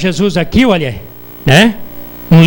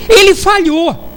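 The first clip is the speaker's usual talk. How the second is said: mocking a smug know-it-all, pitched higher, slowing on ele falhou; arrogant mockery; 5 semitones higher than usual. Preacher mocking an arrogant person who claims God failed, high scornful voice. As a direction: sneer it out like someone sure God got it wrong. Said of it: "a prepotência de falar".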